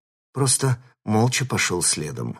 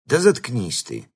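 angry bark; 2 semitones higher than usual. Acted. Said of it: "злобно рявкнул санитар".

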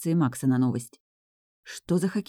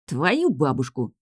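sighing; slower than usual. A narrator's reading. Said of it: "вздыхает Гай".

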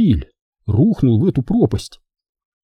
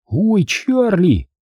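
put-on exasperated boy; 8 semitones higher, much slower than usual. Benjamin throws up hands.

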